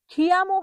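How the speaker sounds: খিয়ামো with a forceful "kh"; common mispronunciation. Shown as a demonstration. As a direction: say খিয়ামো as "khi-amo". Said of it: "জোর বেশি লাগে".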